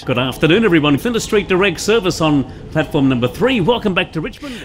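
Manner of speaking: platform announcement voice; train announcer. Acted. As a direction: announce it like a station PA. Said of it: "a train announcer".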